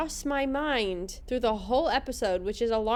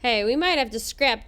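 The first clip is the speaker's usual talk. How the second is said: lightly voiced gruff worker; half-hearted try at a blue-collar accent; 4 dB louder than usual. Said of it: "gruff blue-collar worker voice".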